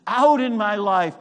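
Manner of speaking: impassioned prayer swelling to a declaration. Acted. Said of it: "I say".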